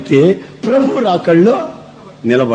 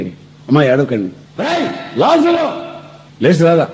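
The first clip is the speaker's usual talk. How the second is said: calling Lazarus. Retold or imitated. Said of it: "అని అంటే".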